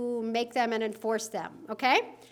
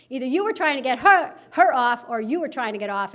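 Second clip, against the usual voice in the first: put-on Texas accent; 5 dB louder than usual. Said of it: "I don't know why I go into this Texas accent".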